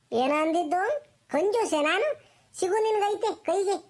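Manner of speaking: offended grandma, pitch climbing into a threat; mildly acted indignation; cross scolding. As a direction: scold the cheeky grandchild as he gets away. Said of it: "ಯಾರ್ದ ಮ್ಯಾಲೆ ರೇಗಾಡ್ತಿದ್ಯಾ?".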